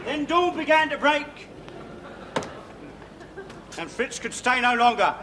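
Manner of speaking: grand tragic wailing. Acted. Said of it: "a little dramatic monologue".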